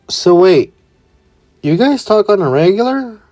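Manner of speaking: high, surprised question. Acted. Izumi surprised her brother calls Mom, high pitched. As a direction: rise up in disbelief.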